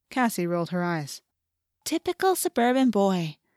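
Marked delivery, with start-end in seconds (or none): 1.8-3.3 affectionate, fond, lightly pitched-up tone. Cassie responds to Jake's laughing answer, affectionately. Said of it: "she said affectionately".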